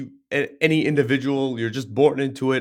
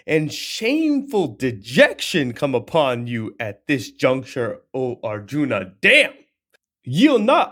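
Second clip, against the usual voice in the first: raised, forceful scolding of a friend; stern rebuke. Acted. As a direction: shake him out of his slump. Krishna rebukes despondent Arjuna.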